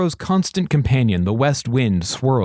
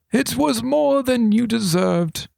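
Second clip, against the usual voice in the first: assuring regent; 11 semitones higher, slower than usual. A narrator's reading. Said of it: "assured the regent".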